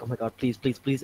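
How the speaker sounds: soft, hushed begging; quiet re-enacted prayer for luck; mock pleading. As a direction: plead under your breath, acting it out. Acts out pleading with loading console.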